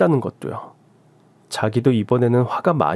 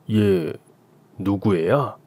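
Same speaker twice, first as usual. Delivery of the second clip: lower, slow and flat-voiced question; cold husband; 4 semitones lower, much slower than usual. Husband coldly asking his wife whose baby it is, lower. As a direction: ask it coldly, no warmth.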